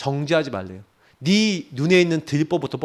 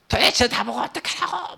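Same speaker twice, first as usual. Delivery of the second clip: mild mock yell, pitched up but held back; 화장실에서 지른 소리를 가볍게 재연; retold frustrated yell; 5 semitones higher, 5 dB quieter than usual. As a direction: replay the outburst at the restroom door without real volume. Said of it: "막 소리 지르고".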